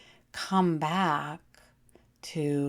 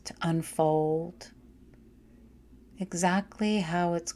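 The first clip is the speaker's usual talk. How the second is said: guided meditation. Acted. Guides a yoga nidra relaxation.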